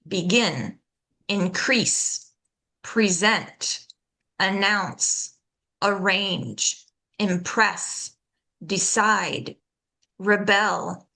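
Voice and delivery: be-GIN, in-CREASE, pre-SENT, an-NOUNCE, ar-RANGE, im-PRESS, de-CIDE, re-BEL; "Begin" through "rebel", each stressed at the end; second-syllable stress. Shown as a demonstration. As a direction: verb list, light first syllable from "Begin" to "rebel". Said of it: "we stress the second syllable".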